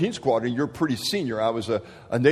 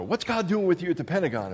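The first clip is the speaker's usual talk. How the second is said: upbeat wife; 6 semitones higher than usual. Retold or imitated. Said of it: "She's just an upbeat person".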